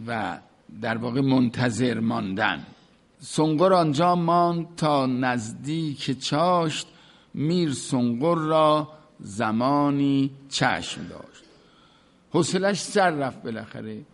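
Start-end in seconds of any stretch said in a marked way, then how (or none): 3.2-11.4 slow, measured verse reading; poem recitation. Acted. Teacher recites the Masnavi couplet to students, in slow measured verse. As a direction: intone the couplet slowly.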